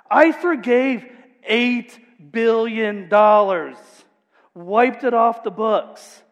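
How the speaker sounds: slow, high, loud furious rebuke; furious king. Acted. King to unmerciful servant, furious and slow. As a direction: rage at the wicked servant, slowly. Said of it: "and he's furious".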